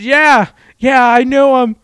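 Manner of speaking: high and loud rowdy yelling; retold drunk shout. Retelling the drunk guy agreeing loudly at the bar.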